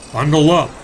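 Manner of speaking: put-on gentle read-aloud storyteller for kids; expressive picture-book reading; storybook narration. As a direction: tell it like a bedtime story to small children. Reads a children's story aloud.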